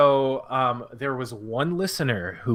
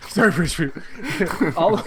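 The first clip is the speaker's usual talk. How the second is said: cracking up while speaking; laughing; 6 semitones higher than usual. Real, not acted. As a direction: squeeze the words out through giggles. Breaks up laughing at running joke.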